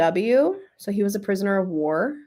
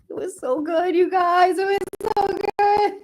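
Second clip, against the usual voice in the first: higher, near tears, rushing the words; emotional; 11 semitones higher than usual. Real, not acted. Telling viewers about the book, choked up. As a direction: gush through the tears. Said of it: "I'm emotional".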